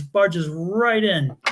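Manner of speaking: "right" stretched long and slow; drawn-out emphasis. Retold or imitated. Mom barging into the principal's office, stretched "right". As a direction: lean hard and long on "right".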